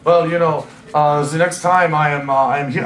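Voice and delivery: put-on hesitant English in a German accent; thick German accent. BBF from Cologne talks about next time, thick German accent. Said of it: "exceptionally thick German accent".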